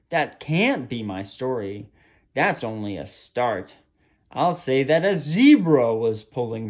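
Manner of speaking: lilting rhymed storytime reading; animated storyteller with expressive rises and falls; children's story narration. A narrator's reading. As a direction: read a verse picture book to children. Reads a rhyming picture book.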